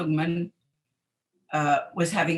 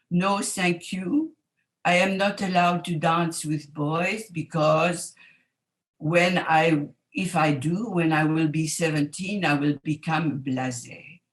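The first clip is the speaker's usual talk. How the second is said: put-on French accent. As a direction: turn the boy down in a gentle French accent. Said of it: "in my French accent".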